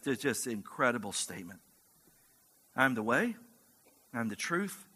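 soft, low, intimate reading of the passage; quiet reflective preaching voice; hushed scripture reading. Acted. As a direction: draw the room in close and read it gently.

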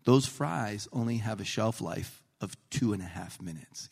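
mock-grave boss explaining the rules; imitating a very serious manager. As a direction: lay it out in measured, earnest pieces. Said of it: "He was so serious".

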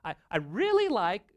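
high put-on lady, accent slipping; little lady voice. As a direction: have another go at the affected lady voice. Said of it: "I'm losing my accent here".

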